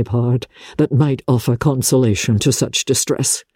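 compassionate but holding back; a hint of restrained Darcy. Darcy taking leave of grieving Elizabeth, restrained.

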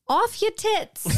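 high, loud, drawn out; slang read with gusto. Acted. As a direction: belt out the slang term slowly.

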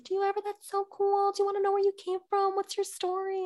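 high, eager, fast questions; bubbly nosy friend voice; curious friends. Retold or imitated. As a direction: gush like an excited friend. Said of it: "little bursts from friends".

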